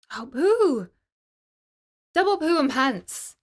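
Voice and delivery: loud high frustrated outburst; exclaimed. Acted. Samantha venting at her mum over the puppy, loud and frustrated. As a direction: blurt it out in disgust. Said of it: "exclaimed Samantha".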